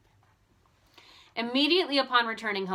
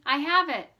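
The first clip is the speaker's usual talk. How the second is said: gleeful; 5 semitones higher, 6 dB louder than usual. A narrator's reading. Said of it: "she cried gleefully".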